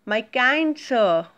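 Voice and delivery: slow, humble request; the boy humbly addresses the potter; polite request. Shown as a demonstration. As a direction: plead gently with the potter. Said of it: "how he requested, see".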